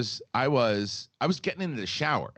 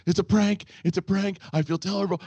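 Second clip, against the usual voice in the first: hurried apology; 8 semitones higher, 4 dB louder than usual. Retold or imitated. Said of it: "and the first".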